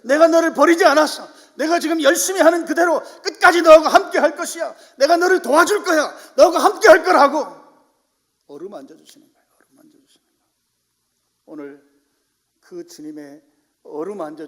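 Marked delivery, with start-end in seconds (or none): 0.0-7.5 loud, high encouraging voice of God. Acted. The Lord urging despairing Elijah to take heart, loud and high. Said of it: "근데 지금 함께 계시는 거예요". 9.6-10.4 어루만져 주시는 거예요 whispered much softer; whispered echo. Shown as a demonstration. Preacher echoing his point to the congregation, whispered.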